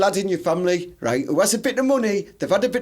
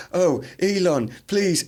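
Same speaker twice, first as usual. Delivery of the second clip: robot sex voice; 2 semitones lower, slower than usual. Pretend. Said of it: "why do they have to have that voice".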